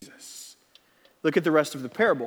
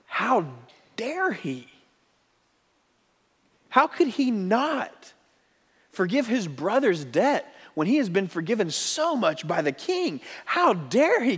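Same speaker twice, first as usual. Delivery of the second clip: higher, incredulous outrage; outraged; 4 semitones higher than usual. Retold or imitated. Listeners outraged at the unforgiving servant. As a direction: voice the crowd's indignation. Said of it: "we have this sense of".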